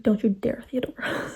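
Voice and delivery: low warning, softening on the name; mock warning. Acts out hero's warning to heroine.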